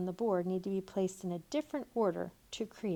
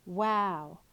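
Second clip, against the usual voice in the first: excited; 5 dB louder than usual. Shown as a demonstration. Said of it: "read with excitement".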